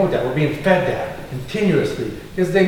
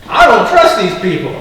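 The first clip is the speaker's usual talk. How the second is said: rising, louder, fired-up distrust; 4 dB louder than usual. Real, not acted. A candidate fired up about AI companies, growing louder and angrier. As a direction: let the anger build as you go. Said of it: "I'm getting a little fired up here".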